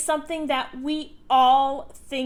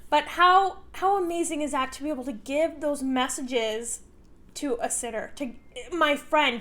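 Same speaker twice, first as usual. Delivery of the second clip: teary. Real, not acted. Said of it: "sorry, I'm getting teary".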